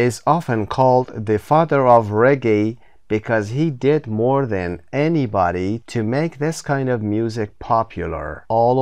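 slow, careful reading aloud of the passage; slow text reading. Shown as a demonstration. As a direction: read the text slowly for learners to follow. Teacher reads the introduction text.

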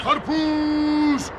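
very long drawn-out hawker's call; slow watermelon seller's cry; street vendor's cry. Acted. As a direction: stretch it out, then land the last word. Hawker crying his wares.

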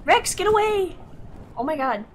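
very high, flustered pleading; panicky whine. Real, not acted. Gamer unable to drop from the glider, high panicky whine. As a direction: plead in a high, frustrated squeal. Stuck in air, wanting to drop.

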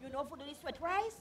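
secretive. Acted. Friends plot out of mother's hearing, hushed and secretive. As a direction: keep it down so nobody overhears. Hope your mama not listen.

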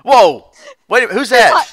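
voicing the dog. Voicing the confused dog, mock startled question. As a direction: voice the dog surprised. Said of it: "Tilting his head".

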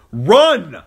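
high, explosive yell; urgent shout. A narrator's reading. Rescuer carrying a child from battle, urgent shout. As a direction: yell it as a desperate command. Urging flight from the fire.

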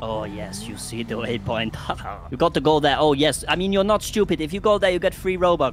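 a put-on Russian accent, sly and teasing; lightly played Russian caller pushing free Robux. Mystery caller taunting Carlos, a mild put-on Russian accent. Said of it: "What is this accent?".

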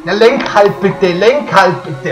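pleading angry shout; loud frustrated begging; berserk rage. Real, not acted. Begging the car to steer.

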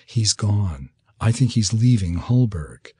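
understated tender news; softened voice. Acted. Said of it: "her voice softened".

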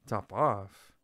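loud shocked cry; cried out. Acted. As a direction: cry it out in disbelief. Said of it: "cried the mouse".

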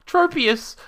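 very high, loud cry of discovery; excited call. Real, not acted. Player spotting a Pokemon, excited shout. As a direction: shout the name high in delight.

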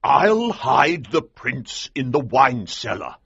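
high, slow but keen colonel voice; excited colonel. A narrator's reading. Colonel telling the hero his plan, excited. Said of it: "he said excitedly".

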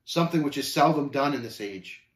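sober, measured remark; a touch of gravity; serious. Acted. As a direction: turn earnest. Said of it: "Then growing serious once again".

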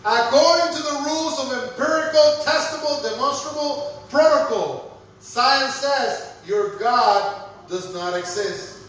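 slow, weighty pronouncement; emphatic reading. Shown as a demonstration. Preacher reads the professor's verdict slowly to his congregation. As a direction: lean on every word, slowing at the end. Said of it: "Presta atención a esta línea".

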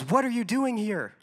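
high, loud, slow shouted challenge; retold yell. Coven leader yells at the stranger in the woods, loud and slow. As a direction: bark it at the intruder like a coven leader. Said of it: "and she yells".

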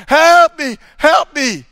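loud, high cry for help; shouting for help. Retold or imitated. Man adrift on a roof yelling at a ship, loud and high. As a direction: call out to the passing ship. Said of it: "wave and shout".

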